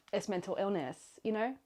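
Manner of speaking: slightly put-on British accent; British accent, lightly attempted. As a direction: have a half-hearted go at British. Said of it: "my attempt at a British accent".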